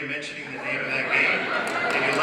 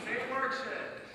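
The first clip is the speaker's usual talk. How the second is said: a lightly voiced, higher and softer echo of the asker; mock audience request; 8 semitones higher, 9 dB quieter, slower than usual. Echoing a fan's shouted request in a higher, softer mock voice. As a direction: parrot the fan's request back, small and high.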